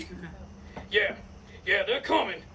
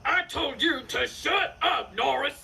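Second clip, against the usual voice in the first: angry shout; 3 semitones higher than usual. Acted. Outlaw yelling at prisoner.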